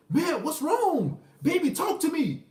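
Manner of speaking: high, slow mock pleading; a hint of a desperate boyfriend. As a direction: beg her sweetly to open up, hammed up. Man begging girlfriend to talk.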